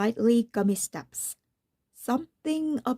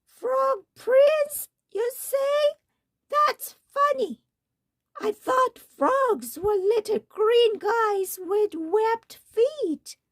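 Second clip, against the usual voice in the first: put-on croaking old witch; 12 semitones higher than usual. Old witch to the prince, croaking and very high. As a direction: screech it like a deaf old hag. Second witch voiced throughout.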